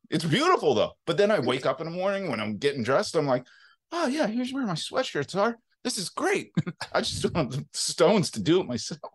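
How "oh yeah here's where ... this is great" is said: high-pitched mock delight; light up at finding it, put-on; much higher, acted happy realization; pleased discovery. Acts delighted discovery of sorted clothes.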